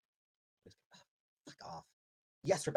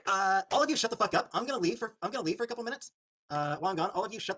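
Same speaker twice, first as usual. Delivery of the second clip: louder and higher, shouting at everyone; angry outburst; 6 semitones higher, 3 dB louder than usual. Real, not acted. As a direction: yell at the whole chat before walking off. Streamer yelling at his chat.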